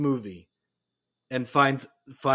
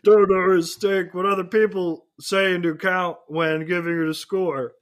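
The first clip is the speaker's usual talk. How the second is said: Kermit the Frog voice; 4 semitones higher, 5 dB louder than usual. Retold or imitated. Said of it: "That's my impression".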